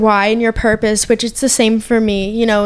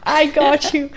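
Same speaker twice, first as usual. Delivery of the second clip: higher, tender retold promise; imitating heartfelt comfort; emotional reassurance; 4 semitones higher, 3 dB quieter, slower than usual. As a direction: reassure a crying cousin, a touch choked up. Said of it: "it was an emotional little moment".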